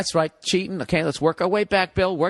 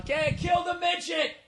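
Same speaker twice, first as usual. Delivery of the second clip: high, drawn-out heckler's yell; high-pitched heckling, stretched out; mock yell; 11 semitones higher, slower than usual. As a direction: imitate a stadium crowd jeering from afar. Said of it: "They yell".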